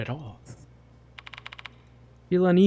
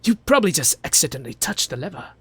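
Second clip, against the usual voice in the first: put-on British accent; 3 semitones higher, 4 dB louder than usual. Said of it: "I should just give him a British accent".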